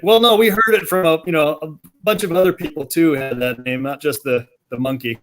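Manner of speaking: a bit flustered, then trailing off as they explain; defensive parents. Retold or imitated.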